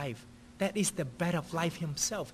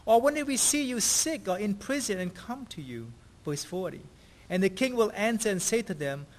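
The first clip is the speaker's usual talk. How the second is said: raised, measured Bible reading to the congregation; scripture reading; 2 semitones higher than usual. Acted. Pastor reading Matthew's verses to the church, measured and raised. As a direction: read the verses as sacred text, lifted.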